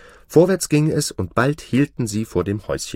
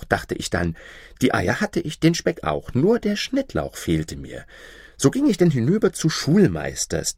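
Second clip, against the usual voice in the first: lightly voiced wife, often pitched higher; affectionate, lively wife; 5 semitones higher than usual. Wife tells her husband about borrowing chives, lively. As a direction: tell it eagerly, in a lifted voice.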